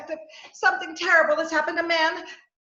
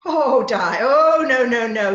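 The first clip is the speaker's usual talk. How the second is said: alarmed cry; 3 semitones lower, 7 dB louder, slower than usual. Acted. Dying friend, she panics.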